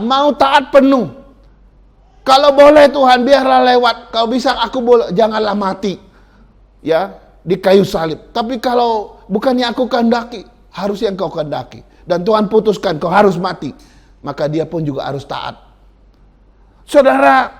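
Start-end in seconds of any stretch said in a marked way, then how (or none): 2.3-13.7 humble prayer. Retold or imitated. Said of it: "Yesus dengan rendah hati berdoa". 16.8-17.5 high, loud address to the congregation; loud call. Real, not acted. Preacher calls out to the congregation, loud and high.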